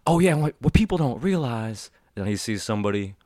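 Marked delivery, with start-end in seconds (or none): 0.1-1.9 higher, lightly put-on voice for talking philosophy at a bar; posh intellectual voice. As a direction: play the well-read talker at the bar. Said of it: "being like".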